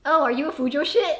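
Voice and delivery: the most over-the-top line yet. Shown as a demonstration. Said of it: "you'll say something higher than that".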